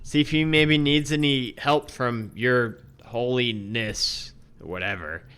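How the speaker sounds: dismissive. Acted. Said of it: "dismisses you pretty nonchalantly".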